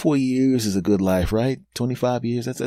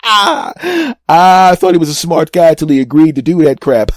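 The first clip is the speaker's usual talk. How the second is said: hammed-up gleeful ridicule, raised voice; mocking doctors laughing; 3 semitones higher, 4 dB louder than usual. Two doctors laughing about their patient behind the door, mock laughter. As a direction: crack up between jibes, imitating gossiping doctors. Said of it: "hear both of those high-priced doctors going".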